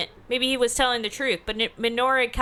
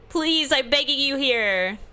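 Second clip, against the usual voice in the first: pleading stranger; 4 semitones higher, slower than usual. Acted. Begging for the cab.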